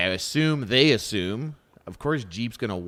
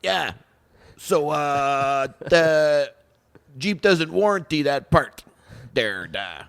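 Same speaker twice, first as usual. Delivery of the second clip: imitating an old French guy's accent, higher and louder; a mock French accent for the Jeep dealer; 4 semitones higher, 5 dB louder, much slower than usual. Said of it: "stop doing his accent".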